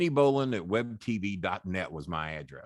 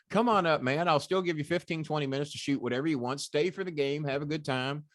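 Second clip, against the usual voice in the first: eager invite; 6 semitones higher than usual. Retold or imitated. Cuban voiced continuing the invite.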